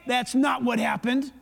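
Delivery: half-voiced inner conscience calling out a lie; inner voice speaking up. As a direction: mildly correct yourself like a conscience butting in. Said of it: "hear that voice rise up and say".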